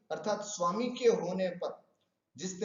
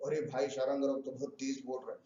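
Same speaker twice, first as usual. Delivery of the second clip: scared; 5 semitones lower, 8 dB quieter, faster than usual. Acted. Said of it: "थर थर कांपने लगी".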